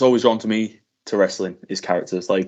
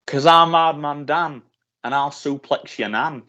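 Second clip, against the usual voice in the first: slow wrestler promo; 4 semitones higher, slower than usual. Retold or imitated. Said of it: "I ended it with".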